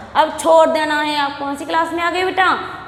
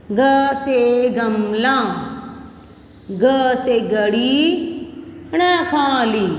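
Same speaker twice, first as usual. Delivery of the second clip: slow, drawn-out letter-and-word drill; consonant recitation; 3 semitones lower, much slower than usual. Shown as a demonstration. Teacher dictating Hindi consonants to first class, slow recitation. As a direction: stretch each letter, then its word, for repeating.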